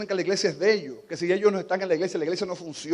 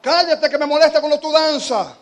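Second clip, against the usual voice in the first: annoyed shushing; 9 semitones higher, 9 dB louder than usual. Retold or imitated. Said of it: "lo que dicen es".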